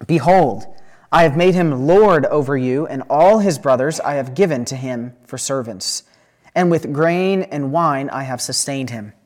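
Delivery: measured, emphatic Bible reading; scripture reading. A narrator's reading. Preacher reads Genesis to the congregation, measured and emphatic. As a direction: read the passage aloud with deliberate phrasing.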